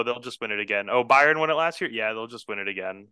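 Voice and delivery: sarcastic. Real, not acted. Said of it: "you get sarcastic about it".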